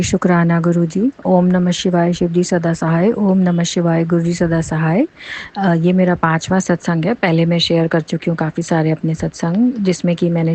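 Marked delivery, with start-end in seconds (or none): 0.0-5.1 devotional invocation. Real, not acted. Opening chant to guru.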